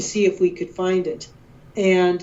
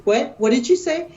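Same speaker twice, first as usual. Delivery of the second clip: higher, startled retold disbelief; disbelieving what; 6 semitones higher than usual. Wife can't believe husband found it, startled disbelief. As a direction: ask it as if you misheard. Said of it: "And I looked at him and I said".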